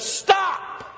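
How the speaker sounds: high, sharp "Stop!"; blunt command. Pretend. Preacher voices the stop sign's blunt order. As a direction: bark it like a road sign. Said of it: "What's the stop sign say?".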